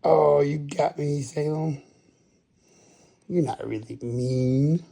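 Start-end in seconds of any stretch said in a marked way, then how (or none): 0.0-1.8 surprised. Real, not acted. Cat grabs, high exclaim.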